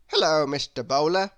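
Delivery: Chatterbox greets. Acted. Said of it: "he said to the man".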